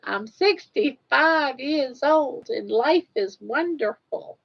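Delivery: playing an old lady for the camera. Playful sweet old woman. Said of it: "Try to talk like an old lady".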